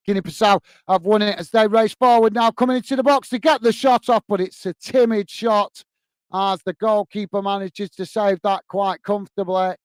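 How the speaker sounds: excited build. Real, not acted. Commentator calling a breakaway shot, rising then easing off. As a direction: lift the voice as the attack breaks forward, ease off on the save.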